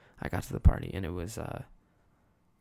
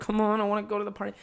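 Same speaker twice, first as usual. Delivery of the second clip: impatient whine; 8 semitones higher, 4 dB quieter, much faster than usual. Retold or imitated. Kid nagging to leave dinner.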